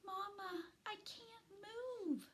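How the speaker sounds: put-on high, faint baby voice; tiny newborn pleading; weak baby possum. A narrator's reading. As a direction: cry out small and weak for mama. Baby possum calling mother weakly.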